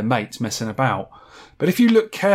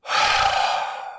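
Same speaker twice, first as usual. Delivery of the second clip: mock excited sound. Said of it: "I'm just gonna do an excited sound".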